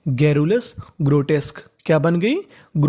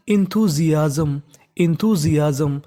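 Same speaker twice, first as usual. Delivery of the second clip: sounding out; 3 semitones lower, much slower than usual. Shown as a demonstration. Teacher sounds out the word.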